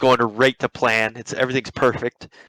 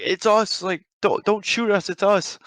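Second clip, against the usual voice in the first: acted high-pitched alarmed plea; panicked plea; 9 semitones higher than usual. Pranksters plead with man holding a gun, acted panicked plea. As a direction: plead urgently, imitating panic. Retold plea not to be shot.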